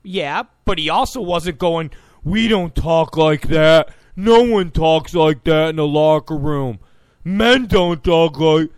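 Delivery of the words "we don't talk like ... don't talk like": loud, level mock protest; mock indignation. Host mimicking outrage Tom Brady never voiced, mock indignant. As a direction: hammer it out as a blustering imitation.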